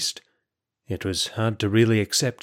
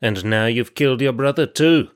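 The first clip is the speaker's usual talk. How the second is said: louder hostile snarl; snarling accusation; 2 semitones higher, 5 dB louder than usual. Acted. Kalai snarls at the prisoner, accusing him of his brother's death. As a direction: spit the blame at him. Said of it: "snarled Kalai".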